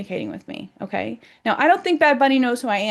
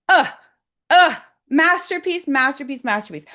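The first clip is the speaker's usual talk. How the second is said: overwhelmed with admiration, let it spill out; awed gush; 5 semitones higher, 5 dB louder than usual. Real, not acted. Gushing over the halftime show.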